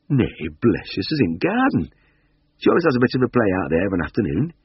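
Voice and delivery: put-on cosy little old woman, fast at the end; high old lady voice.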